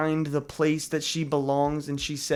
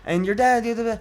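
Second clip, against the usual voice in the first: lightly voiced higher, rushed character impression; imitating channeling character; 5 semitones higher, faster than usual. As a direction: mimic her odd way of talking, pitched up a little. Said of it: "she kinda talks like this".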